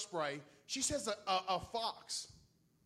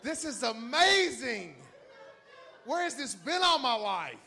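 loud, high, blissful dog voice; 7 semitones higher, 11 dB louder, slower than usual. Retold or imitated. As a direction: voice the dog, delighted by the smell. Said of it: "She's like".

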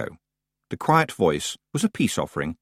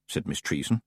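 plain reading voice

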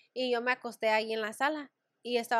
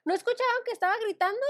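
mock complaint; 10 semitones higher, 4 dB louder, faster than usual. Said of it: "Y yo".

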